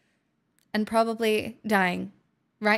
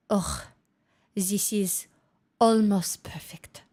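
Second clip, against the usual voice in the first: put-on Russian accent; 4 semitones lower than usual. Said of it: "in my Russian accent".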